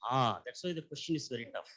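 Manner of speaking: mic handed over. Real, not acted. Speaker without mic, faint.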